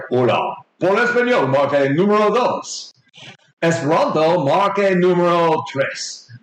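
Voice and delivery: automated phone-menu announcer in Spanish; low masculine voice. Acted. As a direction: read out options like a recorded menu. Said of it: "in a very low masculine voice".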